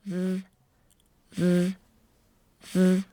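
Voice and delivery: v, v, v: teeth on lip, buzzing the v; v sound. Shown as a demonstration. Teacher demonstrating the v sound. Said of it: "Like this".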